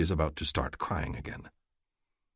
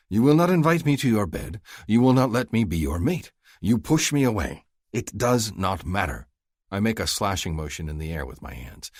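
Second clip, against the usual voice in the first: louder, urgent and insistent; impassioned outburst; 4 semitones higher, 4 dB louder than usual. Acted. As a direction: pour out his hurt to her. He vents his frustration.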